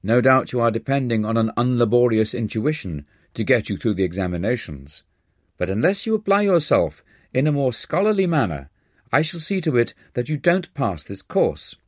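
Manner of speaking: a mild stern warning, rising toward the threat; stern professor. Acted. Professor warning a lax student, mildly stern. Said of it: "addressing me sternly".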